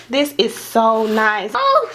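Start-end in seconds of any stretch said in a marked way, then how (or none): 1.5-1.9 high, laughing near-tearful delight; close to happy tears. Real, not acted. Seeing the neat packaging, high laughing near-tearful delight. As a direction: squeal as if about to cry with joy. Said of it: "I'm about to cry".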